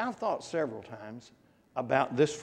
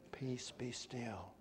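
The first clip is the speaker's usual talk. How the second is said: slow, hushed and gentle; soft; 4 semitones lower, 14 dB quieter, slower than usual. Shown as a demonstration. Preacher showing the congregation how to sing it softly. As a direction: breathe it out softly and slowly. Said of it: "Soft and very soft".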